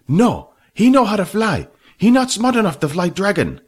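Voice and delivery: high, loud dismissive voice; Fat scoffing. A narrator's reading. Fat dismissing Jack to Billy, high scoffing voice. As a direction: scoff at Jack's brains.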